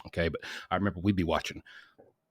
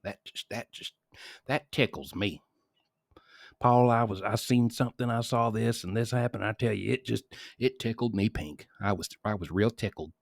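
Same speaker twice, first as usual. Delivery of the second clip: imitating happy dad; 3 semitones higher than usual. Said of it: "he used to say".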